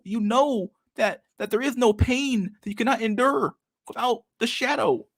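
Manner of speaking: Jordan Peterson impression. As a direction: parody a grave self-help lecturer rambling. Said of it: "How do you do Jordan Peterson again?".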